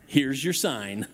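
slow, drawn-out punchline; deadpan Here's your sign, slow; Engvall catchphrase. Retold or imitated. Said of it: "that line was".

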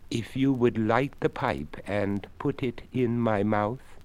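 a courteous creaky skeleton, unhurried. Acted. Skeleton speaks.

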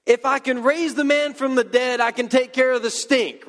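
high, emphatic mock exasperation; incredulous Jesus. Preacher pretending to be Jesus answering doubters, mock exasperated. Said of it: "that's my response if I'm Jesus".

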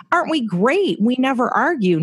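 proud of never fighting; smug. Retold or imitated. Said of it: "we thought, like".

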